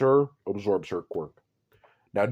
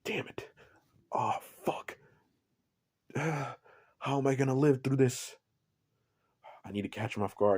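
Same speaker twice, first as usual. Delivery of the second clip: scheming whisper; 2 semitones higher, 6 dB quieter than usual. Acted. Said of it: "she's like".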